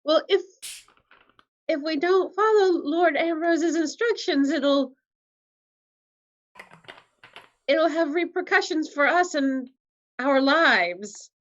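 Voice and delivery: high, halting worried plea; cowering servant. Acted. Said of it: "like, cowers and says".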